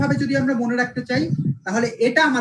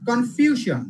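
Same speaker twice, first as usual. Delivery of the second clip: কনফিউশন with ফিউ punched; stress before shon; 2 semitones higher, much slower than usual. Shown as a demonstration. Teacher drilling the shon rule, কনফিউশন stressed on ফিউ. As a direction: hit ফিউ in কনফিউশন, then fall. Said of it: "শন এর আগের যে সিলেবলটা".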